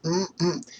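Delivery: high, loud hammed-up Canadian voice; playful Canadian stereotype, high and loud; mock Canadian accent. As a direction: lay on a jokey Canadian accent. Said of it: "we have Canadians that say".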